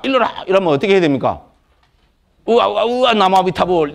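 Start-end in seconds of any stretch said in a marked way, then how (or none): 0.0-0.4 선문답을 다그치는 스님을 흉내 내며 높게. Acted. 선사의 문답 요구를 흉내. 2.5-3.9 선문답 흉내. Acted. 엉뚱한 선문답 답변을 흉내.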